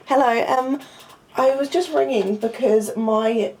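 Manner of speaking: hesitant, polite request on the phone; polite phone manner. Real, not acted. Student ringing the accommodation office about a blocked drain, polite.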